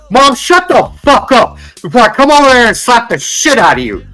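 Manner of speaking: put-on bratty kid yelling. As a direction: snap at Mom like a spoiled kid. Brat yells at mom.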